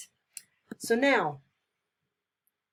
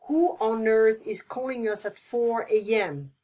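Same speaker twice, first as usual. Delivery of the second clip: angry; 5 dB louder than usual. Shown as a demonstration. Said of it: "Yeah, I would be angry".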